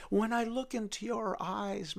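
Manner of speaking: slow, going to a whisper; slow tender whisper to his sweetheart. Acted. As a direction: soften into a whispered endearment.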